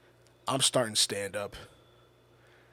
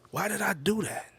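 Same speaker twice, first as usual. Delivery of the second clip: high-pitched, baffled self-reproach; replayed inner "why", pitched high; regretful self-questioning; 8 semitones higher than usual. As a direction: ask yourself in high disbelief. Replaying his regret to himself.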